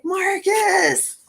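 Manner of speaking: high, drawn-out call for help; re-enacted high-pitched holler; yelling to a neighbor. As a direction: call out for someone down the way. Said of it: "So I yelled out to my neighbor".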